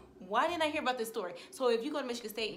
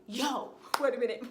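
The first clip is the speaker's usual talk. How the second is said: louder, laughing in shock; laughing disbelief; 3 semitones higher, 7 dB louder than usual. Retold or imitated. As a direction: laugh as it clicks. Hearing others call him crazy.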